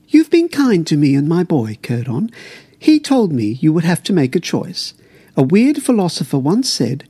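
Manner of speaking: lightly voiced guard, earnest. Guard speaks to Lord Giant.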